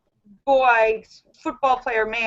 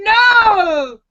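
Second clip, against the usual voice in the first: outraged shout; 9 semitones higher, 5 dB louder than usual. Retold or imitated. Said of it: "everybody in the world is going".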